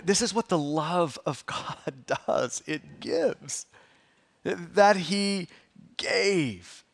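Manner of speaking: low, softened, lingering delivery; hushed reverence. Real, not acted. Pastor dwells on God's love that gives, hushed and reverent. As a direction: drop low and soft, pausing before the key word.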